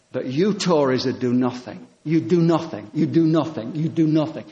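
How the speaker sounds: imitating a politician hammering a soundbite; repetitive political accusation. Prime minister repeating himself to the Tories at Question Time, hammered accusation. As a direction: drum the accusation in, same tune each time. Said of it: "over and over again".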